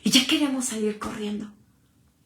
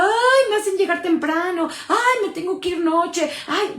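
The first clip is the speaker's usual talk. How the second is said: mock complaining; 5 semitones higher than usual. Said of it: "No se quejaba".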